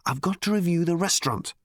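usual speaking voice

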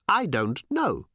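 high, slow odd alien drone. Acted. Alien answering Tricia, slow and blank. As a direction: drag it out blankly.

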